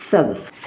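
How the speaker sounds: सब्ज़ said low and falling, with a clear final z; teaching pronunciation. Shown as a demonstration. Teacher presents the Urdu word सब्ज़ to her class, low and falling. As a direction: model the word सब्ज़ with a firm ending. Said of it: "हरा को क्या बोलेंगे उर्दू में".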